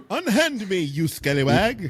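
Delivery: high, slow hammy damsel cry; fluttering cries for help. Pretend. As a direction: squeal it like a swooning lady. Repeating the British slap bit.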